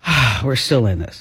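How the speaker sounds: weary sigh into the words; exhaling sigh. Acted. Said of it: "was the exhaling face".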